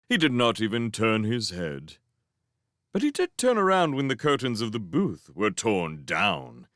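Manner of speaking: ordinary delivery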